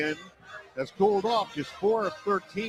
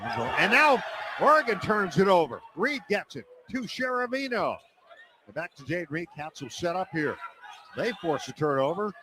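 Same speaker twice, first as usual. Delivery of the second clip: play-by-play. Acted. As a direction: call the possession, then shout the basket. Live radio basketball call.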